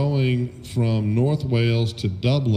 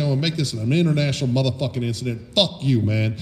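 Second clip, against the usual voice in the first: retold angry rant. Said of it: "I was like".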